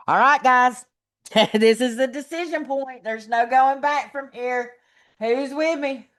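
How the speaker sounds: slow, fired-up rallying call; rally the room to commit; roaring rallying speech. Acted.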